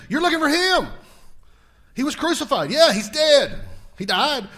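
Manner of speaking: excited preacher voicing the angel's announcement; rousing preaching. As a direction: proclaim the good news with force, peaking on risen.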